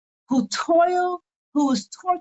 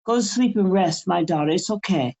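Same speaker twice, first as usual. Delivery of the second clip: a deeper, gentle elder voice; voicing Tata; 6 semitones lower than usual. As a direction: soothe her to sleep as the ancestor. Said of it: "what Tata Nzambi always tell me".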